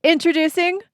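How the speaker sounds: slick TV drug commercial announcer; pharmaceutical ad voice. Pretend. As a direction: sell it like a pharma ad. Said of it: "I'm gonna do my pharmaceutical ad voice".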